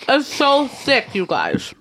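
talking through sticky peanut butter; mouth full of peanut butter. Real, not acted. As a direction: mouth full, tongue stuck to the palate. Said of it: "stuck to the roof of my mouth".

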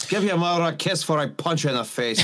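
quick mock Scottish threat; Mike Myers. Movie father threatens his son, mock Scottish accent. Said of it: "Mike Myers Scottish voice".

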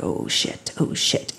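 soft panicky aside; half-whispered swearing to oneself; hushed dread. Retold or imitated. Daughter spotting her mom in the audience, hushed dread.

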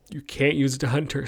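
words cut off by a yawn; stifling a yawn mid-sentence. Real, not acted. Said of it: "I keep yawning".

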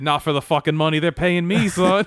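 mock defiant retort. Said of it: "He said".

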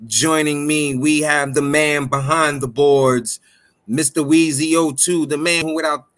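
announcer hyping up the crowd; ringmaster. Acted. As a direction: introduce him like a ring announcer. Hype intro of co-host.

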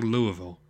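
Louisville said as LOO-uh-vul; Louisville without the S. Shown as a demonstration. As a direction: keep LOO in Louisville but leave the S silent. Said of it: "I don't think you pronounce the S".

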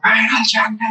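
high, strained mock wail; terrible screaming voice. Kid competing with his brother reciting the Latmiya, high wailing shout. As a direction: belt it out badly like a competing kid. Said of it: "in this, this terrible voice".

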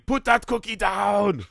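high, drawn-out mock yell; imitated yelling. Dad re-enacting the family in the coffee shop, mock yelling. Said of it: "just start yelling".

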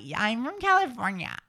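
high-pitched California accent; West Coast accent. Shown as a demonstration. Host models a West Coast accent for co-host. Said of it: "West Coast".

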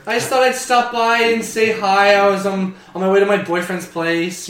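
chirpy daughter. Acted. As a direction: chirp it sweetly. Daughter voice continues.

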